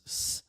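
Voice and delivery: "S" as a held voiceless hiss; plain s sound. Shown as a demonstration. Teacher contrasting letters without the birdie, hissed s. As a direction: sustain just the s sound for "S". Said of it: "this is S".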